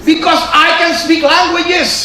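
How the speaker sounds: high, loud, slow arrogant boast; mocking his old pride. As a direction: puff up like his proud former self. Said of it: "masih sombong".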